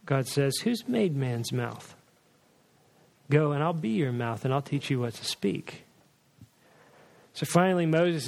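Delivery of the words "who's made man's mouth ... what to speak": God answering. Retold or imitated. God rebukes Moses' excuse.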